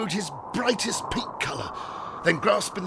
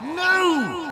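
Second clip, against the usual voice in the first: high, loud cut-in; interrupting shout; 12 semitones higher, 5 dB louder than usual. A narrator's reading. Algernon cuts off the housekeeper, interrupting shout. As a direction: cry out to stop the rambling. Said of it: "interrupted Algernon".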